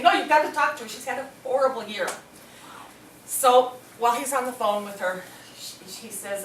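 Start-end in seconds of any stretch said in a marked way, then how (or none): 0.0-2.1 insistent urging. Retold or imitated. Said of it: "she's saying".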